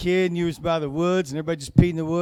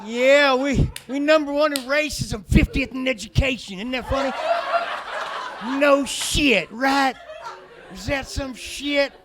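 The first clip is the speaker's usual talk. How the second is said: higher, louder hammed-up hick voice; mock redneck; 8 semitones higher, 7 dB louder than usual. Alabama yokel bragging to the crowd. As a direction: keep the dumb proud Alabama yokel going.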